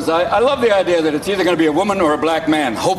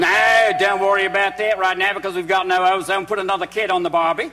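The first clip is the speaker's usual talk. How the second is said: put-on Australian accent.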